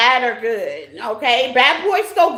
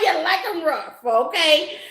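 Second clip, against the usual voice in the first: laughing tease; 3 semitones higher than usual. Real, not acted. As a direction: tease them while laughing. Teasing viewers while laughing.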